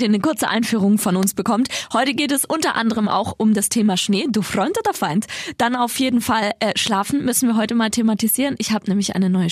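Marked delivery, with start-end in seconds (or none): 4.3-5.3 put-on light Russian accent quote. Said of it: "mit russischem Akzent gesagt".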